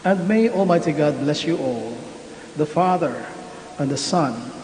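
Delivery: solemn, measured prayer voice; liturgical prayer. Acted. Priest gives final blessing.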